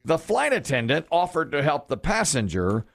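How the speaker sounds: slow, drawn-out clue reading with pauses; milk the punchline for suspense; game show clue read. Acted. Host reading the clue to the contestants, slow and teasing.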